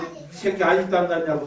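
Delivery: 살짝 높고 큰 흉내 욕설; 목사님에게 욕을 퍼붓는 모습을 가볍게 재연하며; retold cursing. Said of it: "막 욕을 해요". (목사님에게 욕하던 순간을 떠올리며 큰 소리로 흉내 낸 욕)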